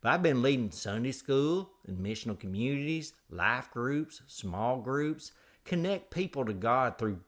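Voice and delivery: exaggerated folksy host spiel; hammed-up show intro. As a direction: roll out your titles with theatrical pride. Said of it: "do the whole show like that".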